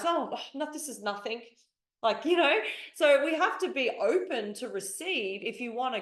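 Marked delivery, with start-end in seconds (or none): 0.0-1.4 bashful brush-off. Acted. Someone who can't receive a compliment, bashfully dismissive. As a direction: wave the praise away, trailing off softer.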